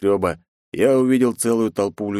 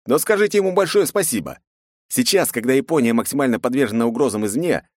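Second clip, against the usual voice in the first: bitter sarcastic scolding; 7 semitones higher, 3 dB louder than usual. A narrator's reading. Hero scolds crowd sarcastically.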